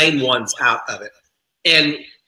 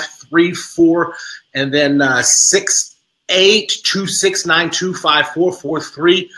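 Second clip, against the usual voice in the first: slow, deliberate digits; slow digit recitation; slower than usual. Shown as a demonstration. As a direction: recite each digit carefully and slowly. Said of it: "I'll repeat them as single digits".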